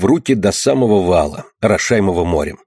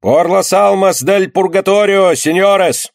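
calling out in Spanish, slow and raised high; loud cry; 10 semitones higher, 3 dB louder, slower than usual. A narrator's reading. Capuchin turns away, calling loudly to the crowd. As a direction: cry out to the whole square for alms. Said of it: "кричит громким голосом".

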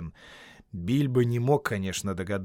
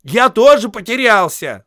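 higher, louder impatient call; impatient shout; 11 semitones higher, 13 dB louder than usual. Acted. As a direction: shout it, fed up. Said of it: "закричал в нетерпении Бильбо".

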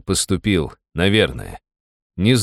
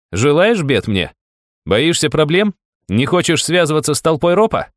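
defiant challenge; 9 semitones higher, 3 dB louder than usual. A narrator's reading. Challenging the guard.

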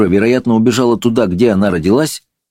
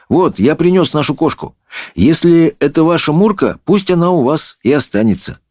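put-on high boyish offer; lightly voiced earnest boy; boy, dutiful; 9 semitones higher than usual. A narrator's reading. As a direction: hand over the cat, voice raised. Boy brings cat to princess.

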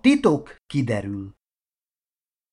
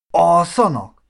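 louder, higher baffled echo; incredulous; 5 semitones higher, 5 dB louder, slower than usual. Acted. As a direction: question ALSZANAK in loud disbelief. Marci echoes the answer, baffled. (hitetlenkedő visszakérdezés)

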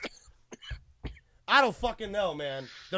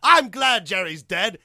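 laughing; 6 dB louder than usual. Real, not acted. Laughing while quoting.

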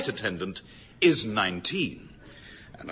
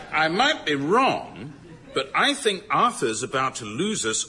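straight face; 4 semitones higher than usual. Acted. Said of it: "I really must learn to say that with a straight face".

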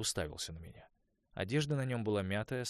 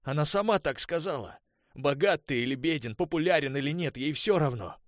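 higher, much louder bitter shouting; 8 semitones higher, 10 dB louder than usual. A narrator's reading. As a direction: hammer every phrase home. Конор кричит в горечи. (Конор громко и с горечью убеждает Уэса)

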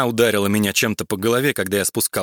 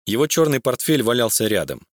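ordinary delivery

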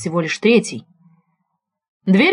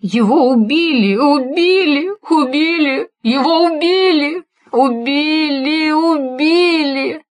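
high, slow, mechanical repetition in shock; repeating like wound up; 6 semitones higher, much slower than usual. Acted. Grieving daughter tells the detective her father was killed, repeating it in shock. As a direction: say it over and over, stuck in shock. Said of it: "словно заведённая".

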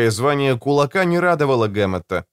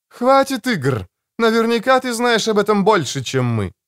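sharp woman's demand; 9 semitones higher than usual. Acted. Женщина резко требует ответа.

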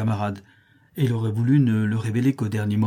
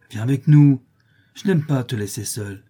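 urging, louder on viens avec nous; remonstrating; 5 dB louder than usual. Acted. Huck pleading with Tom to leave the island, remonstrating. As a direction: chide him gently to come along. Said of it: "d'un ton de remontrance".

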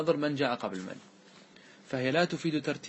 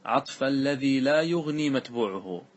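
reciting verse; slower than usual. Shown as a demonstration. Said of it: "ثم قال".

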